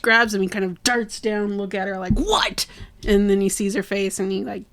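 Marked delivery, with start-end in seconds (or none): 2.2-2.7 sharply high-pitched mock "what"; startled retort. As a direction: react to being grabbed, voice jumping up. Aang snaps at being grabbed.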